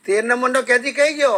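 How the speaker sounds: lightly voiced jailer's roll call. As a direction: summon a prisoner, with a hint of authority. Jailer calls out for a prisoner.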